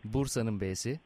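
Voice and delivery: letter by letter, naming a town for each; spelling it out. Shown as a demonstration. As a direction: spell it out like over a bad phone line. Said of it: "kodluyorum şimdi harfleri".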